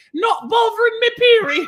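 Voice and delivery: put-on very high, very loud olde English voice. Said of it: "it sounds old English".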